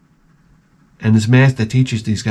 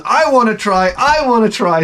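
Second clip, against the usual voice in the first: a hint of a higher, eager idiot voice; lightly voiced simpleton begging; 8 semitones higher than usual. Idiot begging the blacksmith to let him push. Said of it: "the idiot goes".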